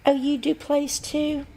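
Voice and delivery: high, puzzled question; surprised question. Retold or imitated. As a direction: act mildly surprised. Receptionist voiced, surprised.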